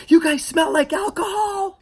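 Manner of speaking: high, tearful mock scream; mock screaming mom. Screaming mom accusing the crew, high tearful voice. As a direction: accuse them, upset. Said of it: "she was also screaming".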